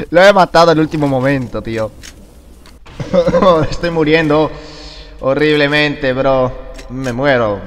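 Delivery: loud, high words through laughter; laughing excitedly. Real, not acted. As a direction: gush while still laughing. Ríe tras matar en el último momento. (hablando entre risas, fuerte y agudo)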